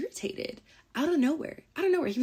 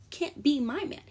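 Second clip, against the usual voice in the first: higher sassy repeat; 6 semitones higher than usual. Shown as a demonstration. To the ex, higher sassy verdict.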